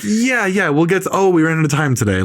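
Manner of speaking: lightly voiced director humoring someone; placating director. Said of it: "Scorsese apparently was like".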